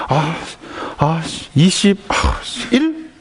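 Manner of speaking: halting guess, leaping up at the end; hesitant child. Acted. Child afraid of being hit guesses, timid and halting. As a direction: stammer out an unsure answer, slowly.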